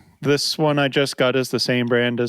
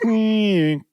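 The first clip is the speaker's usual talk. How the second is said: imitated machine whine; 8 semitones higher than usual. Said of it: "they just kind of go".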